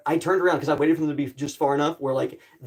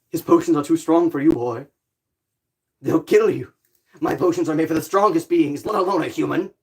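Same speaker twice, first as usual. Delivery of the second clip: potion seller quote. Retold or imitated. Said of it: "this is what the potion seller gives out".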